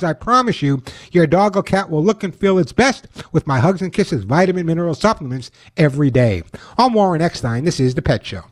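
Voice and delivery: upbeat radio ad read; chipper 1950s ad. Acted. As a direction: sell it like an old-time pitchman. Host reads his own ad.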